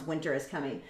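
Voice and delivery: mock-dramatic "Winter is coming"; ominous warning. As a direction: intone it like a grim prophecy. Repeating the grim catchphrase.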